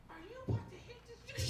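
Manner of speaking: very high, soft self-questioning; incredulous inner voice. Acted. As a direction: ask yourself in a small squeaky aside.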